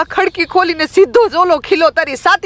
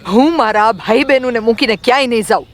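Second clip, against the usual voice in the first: put-on fast, higher-pitched girl's refusal; acted defiant girl, pitched up; angry declaration; 6 semitones higher, faster than usual. A narrator's reading. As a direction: refuse firmly and quickly. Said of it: "તે મોટેથી બોલી".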